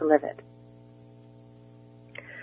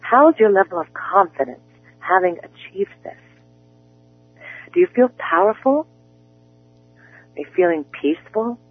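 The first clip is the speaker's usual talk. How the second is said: guided visualization; 3 dB quieter than usual. Acted. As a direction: lead the listener gently into the picture. Coach leads a visualization.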